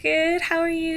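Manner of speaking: high-pitched, giddy small talk; giddy fan reply. Retold or imitated. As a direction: answer in an excited high voice. Retold reply to idol.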